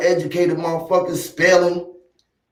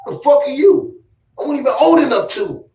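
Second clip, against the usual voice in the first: retold defiance; 6 semitones higher than usual. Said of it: "I said".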